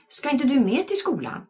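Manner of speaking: high call after him. A narrator's reading. Eddie calling to his brother on the street. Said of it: "ropade Eddie".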